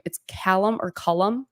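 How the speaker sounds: CALLUM with an A, then CULLUM with an UH; two pronunciations. Shown as a demonstration. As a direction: contrast the first vowels of Callum and Cullum. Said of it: "roasting me for how I pronounce".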